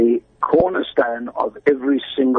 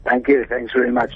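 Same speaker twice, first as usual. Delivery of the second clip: croaky voice. Real, not acted. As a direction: Thank you said in a hoarse, croaky voice. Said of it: "Sorry about the croaky voice".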